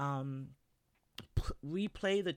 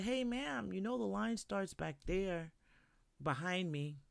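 polite correction; 3 semitones higher, 4 dB quieter than usual. Retold or imitated. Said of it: "I'm like".

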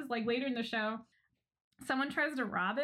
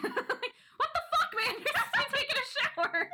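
shocked outburst. Retold or imitated. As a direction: cry out in amused shock. Finds postman in his bathtub.

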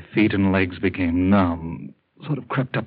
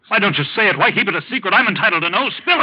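higher and louder, furious demand; angry demand; 10 semitones higher, 5 dB louder, faster than usual. Acted. Sick man shouting at his doctor for the truth, angry. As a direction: force the doctor to speak up.

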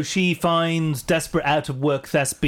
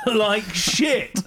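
laughing; 2 semitones higher than usual. Real, not acted. Laughing through the complaint.

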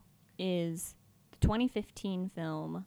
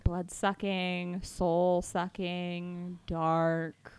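spooky voice; 3 semitones lower, much slower than usual. Acted. Spooky list, slowed.

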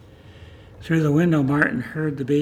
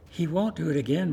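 pleading. Acted. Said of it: "Martin pleaded".

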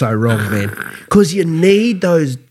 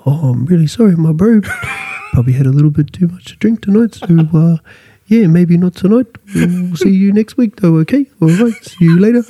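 gentle Polynesian bouncer; 3 semitones higher than usual. Retold or imitated. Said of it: "That's how they talk".

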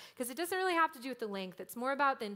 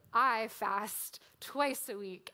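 smug bragging; 3 dB louder, much slower than usual. Retold or imitated. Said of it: "bragging about how righteous he is".

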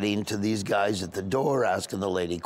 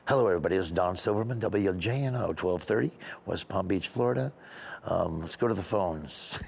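lightly imitated radio host, lower-pitched; a hint of local talk-radio presenter; Don Silverman; 5 semitones lower, 3 dB quieter than usual. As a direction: open a phone-in show like a radio host. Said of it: "There's a guy called Don Silverman".

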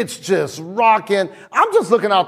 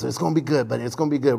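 soothing reassurance; 6 semitones lower, 4 dB quieter, much faster than usual. Retold or imitated. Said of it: "I got him like this".

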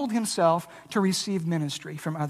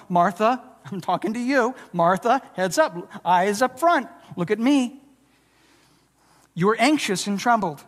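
firm, direct calling to attention; gently but firmly get her eyes on you. Shown as a demonstration. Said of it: "the directness in the tone".

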